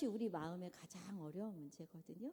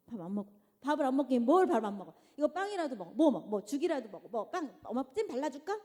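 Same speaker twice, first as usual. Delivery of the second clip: fast, louder nagging over breakfast; exasperated mother; 6 dB louder than usual. Retold or imitated. Mother forcing breakfast on her child, fast and loud. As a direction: push food at the kid, irritated.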